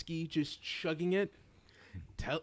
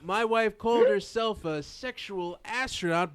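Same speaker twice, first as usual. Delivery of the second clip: deadpan baseball announcer; 6 semitones higher, 7 dB louder than usual. Retold or imitated. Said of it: "So it's like".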